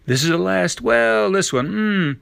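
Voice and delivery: put-on high, tempted little-girl voice; indulgent little girl. A narrator's reading. Girl talks herself into another strawberry, indulgent.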